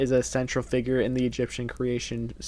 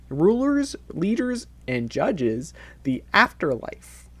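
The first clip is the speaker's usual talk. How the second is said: singsong list-reading voice; preschool teacher voice; 4 semitones higher than usual. Acted. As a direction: read it like to toddlers. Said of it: "why did you say it like that".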